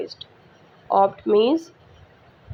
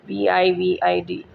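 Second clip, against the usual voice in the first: spelling out letters; 2 semitones lower than usual. Shown as a demonstration. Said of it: "that is vivid".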